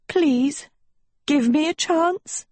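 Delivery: high-pitched pleading; distressed, high little plea; desperate begging. A narrator's reading. Sophie begs the prince.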